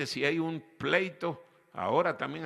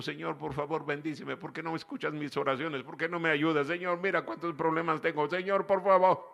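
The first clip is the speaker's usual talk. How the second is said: mock whining prayer; 2 semitones higher, faster than usual. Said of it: "ahí estamos chillando".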